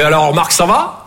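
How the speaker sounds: slow, lightly voiced innocent mother; awkward mother at breakfast. Mother at breakfast, slow innocent question. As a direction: ask casually, unaware. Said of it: "elle est".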